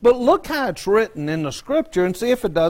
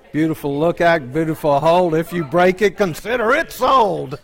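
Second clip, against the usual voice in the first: laughing rhyme; 4 dB louder than usual. Real, not acted. Quotes shop-sign rhyme, laughing.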